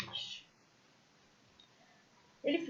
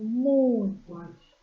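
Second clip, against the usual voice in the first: MUITO drawn out slow and loud; storyteller's emphatic, stretched "muito"; stretched emphasis; 8 dB louder, much slower than usual. A narrator's reading. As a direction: lean long and hard on "muito". Repeats for emphasis while storytelling.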